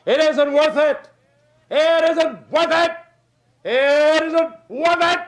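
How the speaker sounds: high, slow, drawn-out whine; whining holler. Retold or imitated. Quitters hollering to the leader, high slow whine. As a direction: moan it like a quitter complaining. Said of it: "hang around and holler".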